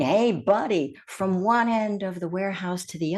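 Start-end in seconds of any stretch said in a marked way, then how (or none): 0.0-1.0 mild mock bellow of a boss; mock gruff bellow. Gruff boss calling across the warehouse, mildly mock-bellowed. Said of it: "gruff mid-level boss who's bellowing".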